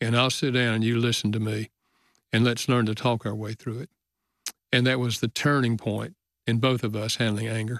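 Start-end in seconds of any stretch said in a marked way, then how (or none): none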